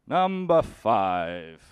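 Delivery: slow, drawn-out announcer call; number announcement. Pretend. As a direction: stretch it out like a showy announcer. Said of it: "big fan of doing the numbers".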